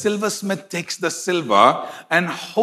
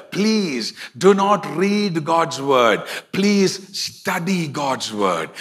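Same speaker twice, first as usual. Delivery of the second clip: slow, deliberate preaching, each phrase set apart; slower than usual. Acted. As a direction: lay each word down slowly for the congregation. Slow emphatic exhortation.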